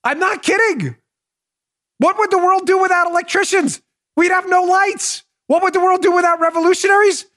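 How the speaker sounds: high-pitched, emphatic questioning; worked-up rant. Real, not acted. Insisting electricians matter over revolutionaries, high worked-up rant.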